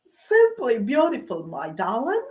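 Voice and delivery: lightly drawn Southern US charm, easy on the ear; a hint of a Southern gentleman's accent, hammed up for fun; mock Southern accent. Retelling a flirty engineer's compliment in a mock Southern accent. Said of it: "with a southern accent".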